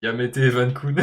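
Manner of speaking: hammed-up anime plea with laughter; excited anime fan. Parodie d'anime en montage. (fan d'anime surexcité)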